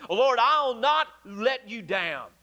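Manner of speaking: slow, firm vow as Peter; imitating a confident pledge; bold declaration. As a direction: declare it boldly, drawing the words out. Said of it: "a very bold statement".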